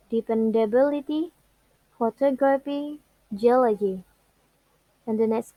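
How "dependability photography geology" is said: BIL in dependability, TOG in photography, OL in geology; stress on antepenultimate syllable. Shown as a demonstration. Teacher repeating rule examples, third-from-last syllables stressed. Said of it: "penultimate syllable".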